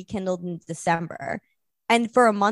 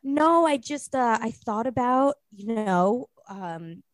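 imitating his halting, drawn-out explanation; hesitant; slower than usual. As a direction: fumble slowly for the words.

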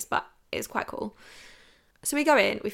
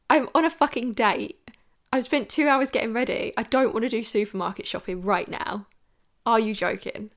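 mock rant; 4 dB louder than usual. Inner rant at date.

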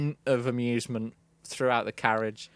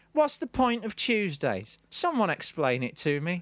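mock-hilarious post; 4 semitones higher than usual. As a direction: read out the post as a feeble joke. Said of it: "had hilariously posted".

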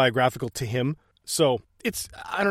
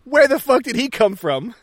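high-pitched mock acting outburst; Dick Ritchie audition reading; 8 semitones higher, 4 dB louder than usual. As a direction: read it like an overeager auditioning actor. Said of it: "he says".

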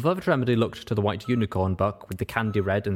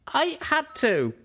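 evenly; slower than usual. Acted. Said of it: "I said evenly".

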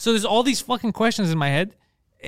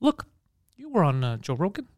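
low, hushed, halting imitation; mock cautious asking; 3 semitones lower, 6 dB quieter than usual. Friend feeling out a favor, quietly cautious. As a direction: ease into the question softly, with pauses.

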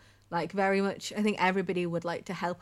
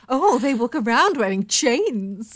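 gossipy neighbor; 4 semitones higher, 9 dB louder, slower than usual. Pretend. Imagined townsfolk gossiping.

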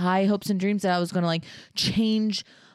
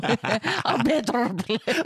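slow, drawn-out bad Irish accent; attempted Irish accent; 2 semitones higher, much slower than usual. Defends the attempt to a partner, slow mock Irish accent. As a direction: have a wobbly go at Irish. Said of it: "that's your Irish accent?".

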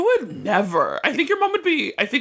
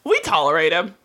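impression of mom; 3 semitones lower than usual. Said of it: "You wanna hear my impression of your mom?".

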